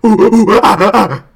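loud, high chimp hoots; chimp hooting. Acted. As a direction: hoot like an excited chimp. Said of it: "in her tender, motherly voice, whispers".

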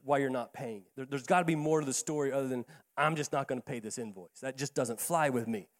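calming a hostile client softly; soft touch. Retold or imitated. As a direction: talk her down gently. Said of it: "soft touch this thing".

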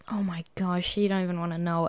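very soft, whispery aside; retold hushed dismay. Describing a wrecked cupboard to friends, hushed dismay. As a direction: drop to a near whisper.

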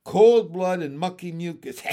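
loud, relishing frog voice; gloating bullfrog; raspy bullfrog. A narrator's reading. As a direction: savour it with a rasp. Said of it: "in his raspy voice".

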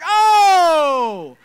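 high, loud gasp of understanding; sudden realization. Pretend. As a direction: let it dawn all at once.

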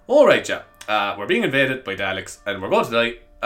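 imagined dim Irish Doctor; Dougal from Father Ted. Acted. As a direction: play a hapless Irish Doctor. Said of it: "would be Dougal from Father Ted".

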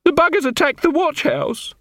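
high, frightened whimper. A narrator's reading. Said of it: "Scully looked up at Detritus and whimpered".

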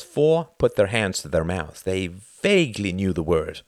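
ordinary delivery, nothing marked

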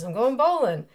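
loud stage reply; play character. Acted. Husband calling back to wife, loud. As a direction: call it back over your shoulder. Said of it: "He says".

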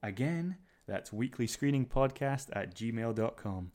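slow, careful announcement; announcer voice. Pretend. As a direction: read it like a station announcer. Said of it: "I thought that was quite good".

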